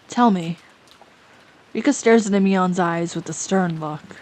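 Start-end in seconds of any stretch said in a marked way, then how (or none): 1.7-4.2 calm, even narrator voice; measured storyteller tone; story narration. A narrator's reading. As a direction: read it like stage directions. Narrator reads stage directions.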